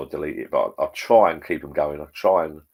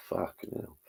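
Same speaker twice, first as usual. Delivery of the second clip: hushed whispered swear; whispered curse; 11 dB quieter, slower than usual. Retold or imitated. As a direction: breathe the curse out. Retold curse, unvoiced.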